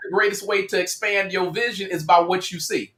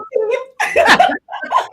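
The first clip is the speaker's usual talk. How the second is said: high squealing laugh. Real, not acted. Cohost squealing with laughter at the Dorothy joke.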